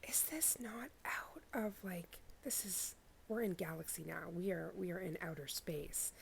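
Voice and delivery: awed hushed whisper. Real, not acted. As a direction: whisper in wonder. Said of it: "I feel like I have to whisper".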